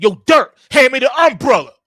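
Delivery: loud, high, barked order; rough demand. Shown as a demonstration. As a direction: bark it at him, hard and forceful. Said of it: "talking to me so rough".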